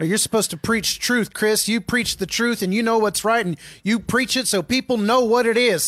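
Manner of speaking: put-on high, preachy country accent. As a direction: preach it like a Southern country pastor. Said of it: "Why are we doing country accents?".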